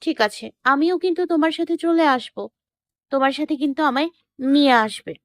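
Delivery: put-on very high, tearful girlfriend voice; acted sobbing. A narrator's reading. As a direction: insist through mock sobs, pitched high. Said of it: "ফুপিয়ে ফুপিয়ে বলল". (ফুঁপিয়ে আবদারের অভিনয়)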